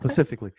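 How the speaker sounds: specifically turned into "pacifically"; punning mispronunciation. Shown as a demonstration. Repeating the time-zone joke to classmates, specifically punned as "pacifically". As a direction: say specifically without its first s, "puh-sifically". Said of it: "like the time I'm on".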